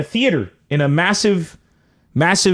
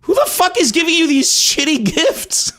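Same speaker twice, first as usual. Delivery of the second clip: outraged disbelief; 12 semitones higher than usual. Real, not acted. Outraged at bad gifts.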